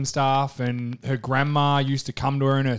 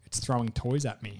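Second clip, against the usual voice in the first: softer, half-asleep words; quiet sleepy voice; 3 semitones lower, 11 dB quieter than usual. Retold or imitated. Girlfriend woken at night, sleepy and quiet. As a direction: mumble like someone just woken. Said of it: "she was like".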